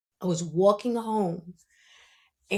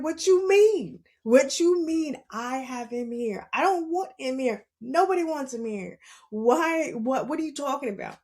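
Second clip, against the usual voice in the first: mock-indignant, pitched way up; mad, high-pitched retort; 4 semitones higher than usual. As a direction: replay the outrage, high and fast at the end. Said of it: "I was mad too".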